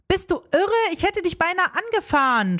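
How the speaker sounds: high-pitched, alarmed scolding at ordinary volume; understated shout. A narrator's reading. Woman to boyfriend blocking her car, a restrained shout. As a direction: raise the pitch as in a contained yell. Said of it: "schreie ich und steige aus".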